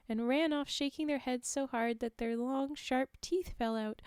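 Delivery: steady storyteller read; story narration. A narrator's reading. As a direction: read it like a folk tale. Reads the folk tale aloud.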